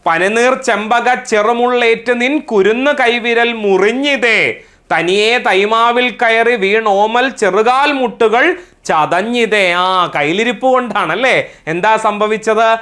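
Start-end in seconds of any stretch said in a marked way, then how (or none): 0.1-9.7 poem recitation. Acted. Teacher reciting a mother's comforting verse to class, poem recitation. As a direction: recite the verse in a measured, singsong cadence.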